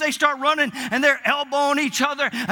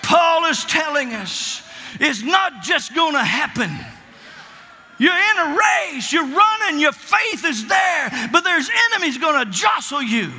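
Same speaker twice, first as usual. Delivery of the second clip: preaching at full force. Acted. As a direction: build the preaching to a roar.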